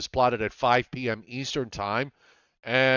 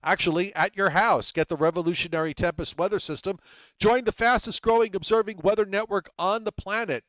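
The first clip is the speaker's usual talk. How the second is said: sponsor read; 4 semitones higher than usual. Acted. Reads the weather system plug.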